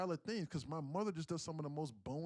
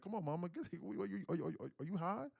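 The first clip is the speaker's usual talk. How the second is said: sarcastic; 5 semitones higher than usual. Retold or imitated. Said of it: "In a, in a sarcastic manner".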